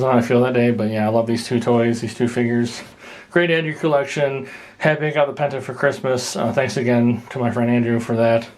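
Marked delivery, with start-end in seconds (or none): 4.8-8.5 breathless, talking between breaths; winded after exertion. Real, not acted. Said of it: "I'm sorry I'm out of breath".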